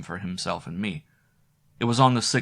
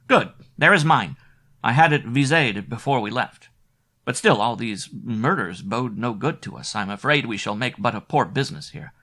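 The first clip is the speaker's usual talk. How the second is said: worried Wilfred; 3 semitones higher, 4 dB louder than usual. Acted. Wilfred worrying about papers.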